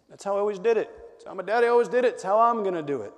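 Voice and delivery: high-pitched mock stubborn insistence; complacent objector. Voicing the complacent person.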